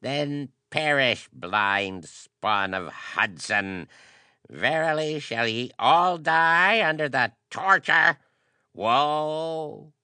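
high, loud, raging curse; shaking with anger. A narrator's reading. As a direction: hurl the curse, rising to a wail. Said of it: "Quivering with rage".

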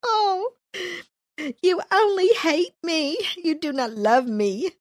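hammed-up weepy wife pleading, pitched high; whiny wife. Samson's new wife weeping on her husband, whiny mock crying. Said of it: "trying to get my whiny voice going on".

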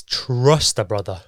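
breathless from running up stairs; panting between words; out of breath. Real, not acted. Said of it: "Can't catch my breath".

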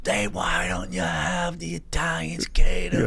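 slow, knowing stand-up delivery; Sebastian Maniscalco impression. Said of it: "He goes".

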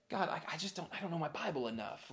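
soft, hesitant admission to God; quiet imitation of an excuse-maker; sheepish excuse. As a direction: mumble a feeble excuse under your breath. Voicing an excuse made to God.

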